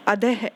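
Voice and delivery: अधः with an h after the dh, like अधह; visarga as h. Shown as a demonstration. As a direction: let अधः end in a breathy h. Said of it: "ध के बाद ह की sound आई". (अधः को ध के बाद ह की आवाज़ के साथ बोलें)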